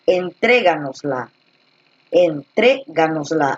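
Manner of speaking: entréganosla said carefully, weight on tré; teacher sounding out entréganosla's stress. Shown as a demonstration. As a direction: slowly hit the tré of entréganosla. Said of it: "Aquí lleva la tilde".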